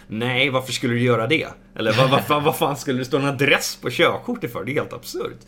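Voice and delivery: mildly snooty, indignant comeback; cocky retort. Retold or imitated. Traveller retelling his reply to a border officer, mildly cocky. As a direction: push back like an insufferable smart-arse. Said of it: "lite så här dryg som bara jag kan".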